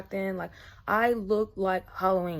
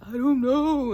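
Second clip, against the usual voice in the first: louder, higher mock-tearful wail; retold crying; 5 semitones higher, 6 dB louder, slower than usual. Answering the driver's questions, retold crying. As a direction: imitate a helpless tearful cry. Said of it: "and, like, crying".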